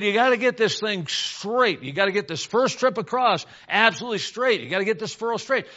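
mildly emphatic fatherly order; dad's firm instruction. Acted. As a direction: drive the key words home like a dad.

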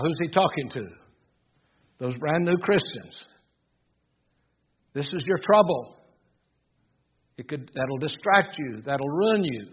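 emphatic, urgent sermon delivery; forceful preaching. Real, not acted.

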